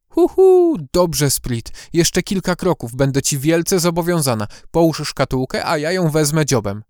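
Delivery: hooting, sweet owl voice. Acted. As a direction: lure him closer gently. Owl character coaxing elf.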